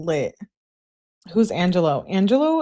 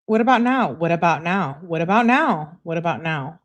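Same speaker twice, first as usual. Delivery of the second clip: mock nagging, repeated in quick succession; annoying pestering. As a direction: imitate a texter who won't stop asking. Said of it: "I annoyed myself just repeating it".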